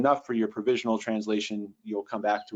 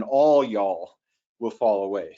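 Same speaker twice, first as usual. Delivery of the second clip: "All y'all" punched louder, then easing off on the rest; emphatic Southern y'all; 4 dB louder than usual. Shown as a demonstration. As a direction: lean hard and loud on "All y'all". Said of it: "that's a really emphatic y'all".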